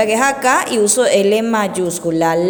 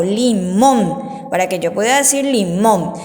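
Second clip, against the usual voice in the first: "limón" as li-MÓN; stress on last syllable; 4 semitones lower than usual. Shown as a demonstration. Teacher explains the accent on O, "limón" said li-MÓN. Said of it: "lleva acento en la O".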